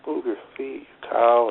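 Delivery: snapping at himself mid-match, half-loud; retold yelling at himself. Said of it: "I'm yelling out loud".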